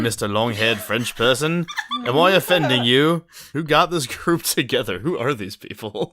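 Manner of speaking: hammed-up mock politeness breaking into a laugh; sarcastic offence. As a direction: taunt him with exaggerated fake concern. Mocking apology to haughty rival.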